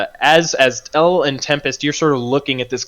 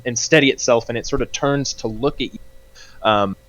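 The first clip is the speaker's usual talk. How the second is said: normal talking voice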